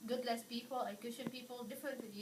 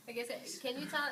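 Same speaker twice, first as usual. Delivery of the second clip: laughing; 4 dB louder, faster than usual. Real, not acted. Laughing while asking about godlessness.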